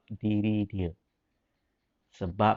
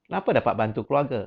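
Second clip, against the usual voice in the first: "Kenapa dapat bantu keluarga?" asked quick, with the pitch dropped down; fast, falling "Kenapa dapat bantu keluarga?"; lowered intonation; much faster than usual. Shown as a demonstration. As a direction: let the tune sink as you rush "Kenapa dapat bantu keluarga?". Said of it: "Saya punya intonasi dah, dah menurun sikit".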